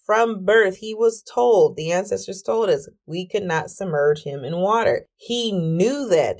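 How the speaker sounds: mock-livid, drawn-out emphasis; livid mother. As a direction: imitate an outraged mom, without shouting. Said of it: "She was so livid".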